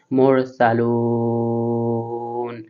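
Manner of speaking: মোর সালুন very slow, final ন clearly sounded; pronounce the final nun. Shown as a demonstration. Teacher shows the final nun of মোর সালুন, slowly. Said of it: "হরফটা উচ্চারণ করতে হবে নুনটা".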